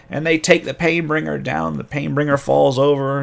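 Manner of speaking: ordinary talk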